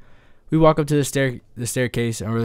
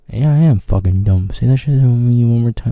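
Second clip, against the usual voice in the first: loud, furious comeback; angry threat; 7 dB louder than usual. Retold or imitated. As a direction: snap back at him like you mean to fight. Retold angry threat to friend.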